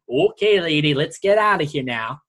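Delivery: put-on light Fargo-style Minnesota accent. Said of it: "I did it in a Minnesota accent".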